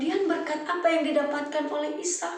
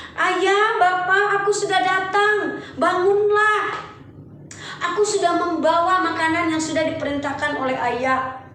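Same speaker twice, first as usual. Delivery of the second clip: higher, louder eager son's voice; an eager son announcing himself; Esau calling father; 4 semitones higher, 4 dB louder than usual. Acted. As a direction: call out to your old father, eager.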